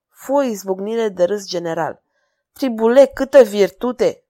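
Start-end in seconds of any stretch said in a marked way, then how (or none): 2.5-4.2 king huffing out a scornful laugh; mocking snort. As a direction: snort the words with amusement. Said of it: "pufni regele".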